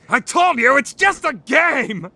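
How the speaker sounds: exasperated. Acted. Exasperated retort.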